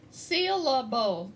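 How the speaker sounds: "syllable" slowly broken into its separate syllables. Shown as a demonstration. Teacher counting syllables for students, "syllable" sounded out slowly in parts. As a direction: sound out "syllable" one beat at a time. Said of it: "let's see how many syllables".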